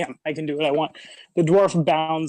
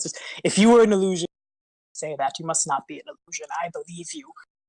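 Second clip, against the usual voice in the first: stage whisper, under the breath; 2 semitones higher than usual. Narrating what a man says after shaking his head and smiling, stage whisper. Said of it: "a kind of another stage whisper".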